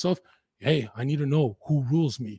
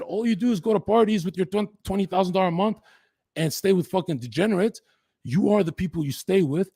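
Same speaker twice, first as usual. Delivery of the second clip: stern lecture; 7 semitones higher, 4 dB louder than usual. Retold or imitated. Brother lecturing him hard.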